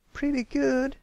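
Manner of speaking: high, sharp offended echo. Acted. Scootaloo offended at pretty good, sharp. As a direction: bristle at faint praise.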